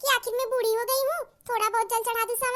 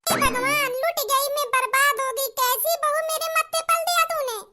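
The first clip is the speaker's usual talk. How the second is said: dramatic wail. Acted. Wailing she is ruined.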